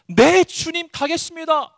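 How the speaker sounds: high, loud, ready answer to a command; eager obedient reply. Acted. Jonah answering the Lord's call, eagerly. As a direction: call out a willing yes, pitched high.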